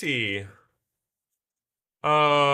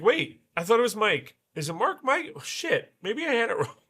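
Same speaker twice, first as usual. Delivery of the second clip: retold confusion; 8 semitones higher, faster than usual. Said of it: "and then I was like".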